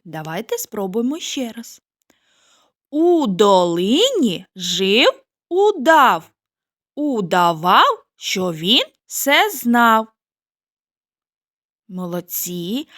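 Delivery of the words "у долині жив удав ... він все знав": slow and careful. Shown as a demonstration. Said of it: "спочатку повільно, а потім швидше".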